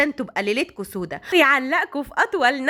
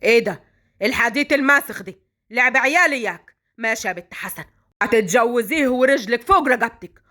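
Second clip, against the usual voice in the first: stern angry grandfather. Acted. Grandfather to Basma after her refusal, stern and threatening. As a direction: lay down the law to a defiant girl.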